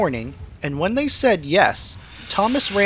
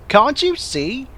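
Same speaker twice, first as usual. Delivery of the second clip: higher, slow smug question; proud little engine; 7 semitones higher, slower than usual. A narrator's reading. Thomas boasting to the signalman, higher smug voice. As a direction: show off to the signalman. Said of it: "said Thomas proudly".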